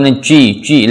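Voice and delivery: "ci" with J slipping into CH; mushy CH in place of J on "ci"; too-wet jim. Shown as a demonstration. Teacher showing learners the mistake, wet "minal ci". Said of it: "Jadi tidak terlalu becek".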